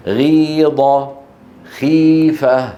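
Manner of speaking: غيض drawn out slowly with a heavy, full throat; emphatic demo words. Shown as a demonstration. Teacher demonstrating the heavier sound in غيض and خيفة, slow. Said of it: "أشد تفخيما من قيل".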